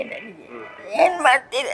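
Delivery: slow, weeping question; pleading through tears; tearful plea. Real, not acted. Grandmother asking the reporter for help, crying. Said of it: "ಅಳ್ಬೇಡಿ".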